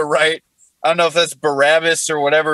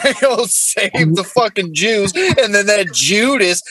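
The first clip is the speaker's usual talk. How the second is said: put-on Jesus, southern accent. Comic voicing Jesus complaining on the cross, southern accent. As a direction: run it together like a southern good old boy. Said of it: "What Jesus said on the cross in a southern accent".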